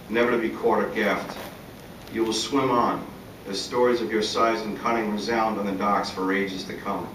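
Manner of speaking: measured poetry recital in falling cadences; poem reading. Acted. Poet to audience, elegy for a late fishing buddy, measured recital. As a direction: recite it line by line, pausing between phrases. Reads own poem aloud.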